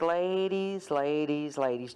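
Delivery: even, unhurried imitated "ladies"; smooth it over, cool and level; calm monotone. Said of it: "I'm so monotone, so calm".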